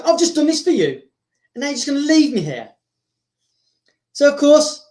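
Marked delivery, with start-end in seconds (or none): 0.1-2.7 略带怒气、音调偏高的抱怨; 为对方做了事却被丢下，憋着火抱怨; Riddick. Acted. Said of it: "'cause he's fuming".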